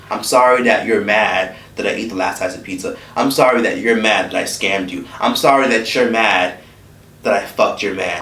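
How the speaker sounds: sarcastic sorry, run through like a list; mock fake apology. Mocking a fake non-apology to someone. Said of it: "That's like somebody saying".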